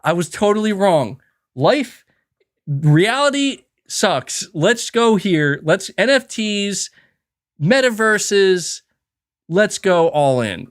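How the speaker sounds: slow, drawn-out converted believer; a slow, mock-sincere believer's confession. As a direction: play a sudden convert, slowly savoring each word. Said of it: "I'll be like".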